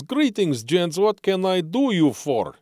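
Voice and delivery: high, chirpy barman; cheerful pub bartender greeting. Acted. Bartender voiced in joke.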